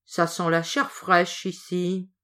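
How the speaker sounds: slow, looming ogre growl, lightly voiced; big ogre voice. Ogre entering his castle, slow menacing big voice. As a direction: sniff the air and drag it out. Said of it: "une grosse voix s'écrier".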